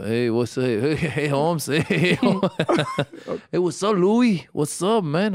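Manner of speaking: half-hearted Chicano accent attempt; lightly put-on Chicano street voice; Cholo accent. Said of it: "let me hear your Cholo accent".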